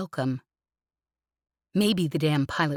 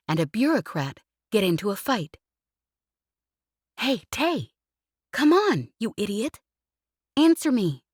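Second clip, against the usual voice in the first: higher, teasing pilot voice, pestering her friend; cheeky pilot Jez; 5 semitones higher than usual. Acted. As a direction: needle him playfully, pitched up. Voices Jez tapping jokes.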